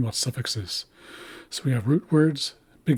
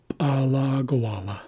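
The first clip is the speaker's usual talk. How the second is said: p'alagawala with the LA after the first held long; second-syllable stress. Shown as a demonstration. Teacher reads out a Haisla word, stress on second syllable. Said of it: "shift the accent to the second syllable".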